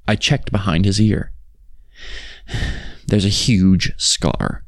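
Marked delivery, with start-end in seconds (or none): 2.5-3.0 soft unvoiced sigh. Journal writer finds grandpa's scar, quiet sigh. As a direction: let out a brief, quiet breath. Narrator's uneasy pause before scar reveal.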